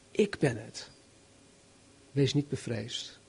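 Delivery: gently reassure, low and quiet; softly comforting Jesus; reassuring. A narrator's reading. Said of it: "hen geruststellen".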